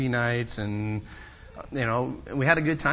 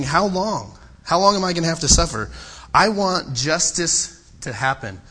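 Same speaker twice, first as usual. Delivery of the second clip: raised, louder pleading cry; voicing Habakkuk's cry; 3 semitones higher, 3 dB louder than usual. Preacher voicing Habakkuk crying out to God, louder plea. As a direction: cry out to God, how long. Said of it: "this is what he's crying out for".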